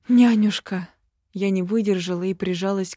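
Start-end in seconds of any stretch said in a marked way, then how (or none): 0.1-0.9 loud, falling cry of relief; emotional cry. Acted. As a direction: cry her name out with relief. Heroine cries out to nanny.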